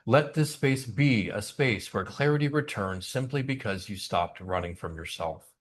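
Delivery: calm meditation guide voice; guided meditation. Acted. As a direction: ease them gently into stillness. Guides the congregation into breath.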